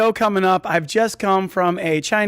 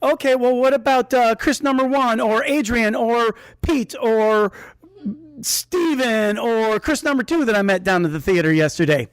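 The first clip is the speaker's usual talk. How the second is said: quoting her; 4 semitones higher than usual. Retold or imitated. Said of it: "she immediately just says".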